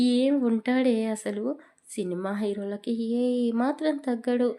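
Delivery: a hint of a dreamy student raving about her teacher; lightly voiced gushing girl. Friend raving about the handsome teacher, lightly dreamy. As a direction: swoon over him, half teasing.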